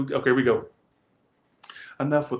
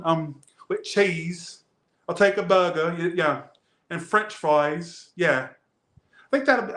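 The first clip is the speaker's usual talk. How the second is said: a faked London accent, quick and higher as he orders; mock London accent; 4 semitones higher than usual. Imagines ordering fast food in a put-on London accent. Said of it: "if I had a London accent".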